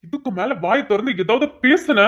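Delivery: slow, menacing warning; slow threat. Acted. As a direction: spell out the threat slowly. Husband silences wife, slow threat.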